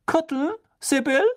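stern, impatient witch; McGonagall voice. A narrator's reading. McGonagall offers dish. (strenge Lehrerin, ungeduldig)

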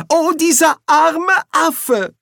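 high, drawn-out wail of pity; loud high-pitched lament; crying out. A narrator's reading. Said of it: "rief Ginger".

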